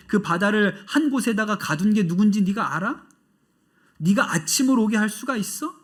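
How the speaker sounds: rebuke. Retold or imitated. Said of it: "하나님이 욥을 꾸짖으시면서".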